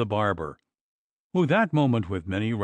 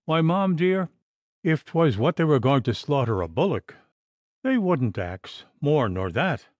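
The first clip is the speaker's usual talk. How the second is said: lively Irish maid's voice, a little raised; Irish servant woman; 3 semitones higher than usual. Acted. Servant Katty frightening her mistress, lively Irish brogue.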